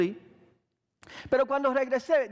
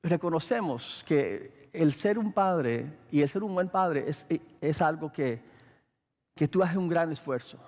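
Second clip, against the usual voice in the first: gentle. Retold or imitated. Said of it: "si ella me lo dijera de esta forma".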